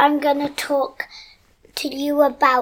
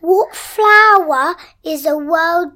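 riddle teller; 6 dB louder, slower than usual. Acted. Telling a riddle.

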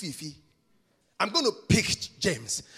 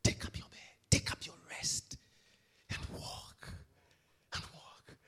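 hushed unvoiced whisper, fading away; 9 dB quieter than usual. Preacher echoing Jesus' command in a fading whisper. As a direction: let the command drop to a breath.

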